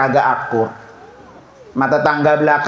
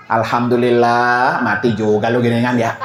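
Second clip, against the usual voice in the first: lower, laughing gloat over a death; mock gloating hater; 7 semitones lower than usual. Preacher mocks the spiteful neighbour, gloating. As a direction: sneer like a neighbour glad you died.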